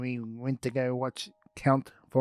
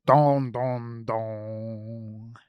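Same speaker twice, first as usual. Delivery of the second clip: dong dong dong fading lower like organ notes; organ imitation; 4 semitones lower, much slower than usual. Shown as a demonstration. Ernie explains the organ to kids, imitating its notes. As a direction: ring it like an organ. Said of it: "it goes".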